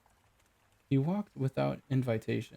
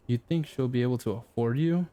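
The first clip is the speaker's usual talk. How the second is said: sneering. Acted. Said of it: "sneered a retreating William Baker".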